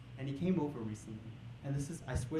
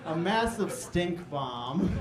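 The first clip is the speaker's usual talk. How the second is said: laughing; 3 semitones higher, 6 dB louder, much slower than usual. Real, not acted. Punchline through laughter.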